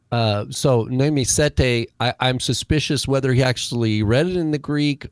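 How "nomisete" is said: "nomisete" with the stress on its second syllable, said slowly; slow teacher's demo: "Me nomisete", stress on no-MI; accent on second syllable. Shown as a demonstration. Greek teacher correcting the host's reading, slow stress on "nomisete". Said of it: "the accent's on the second syllable".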